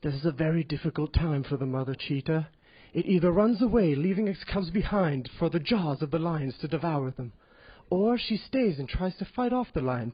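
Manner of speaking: hushed documentary narration voice; lightly done British nature documentary narrator. Retold or imitated. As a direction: narrate it like a soft-spoken British wildlife host. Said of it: "this is your typical nature show".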